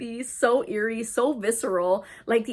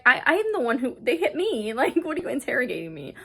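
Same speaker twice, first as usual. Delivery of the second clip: higher-pitched, mildly indignant retelling; indignant protest; 3 semitones higher, faster than usual. Retold or imitated. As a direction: protest your innocence, imitating an affronted man. Acting out man protesting to police.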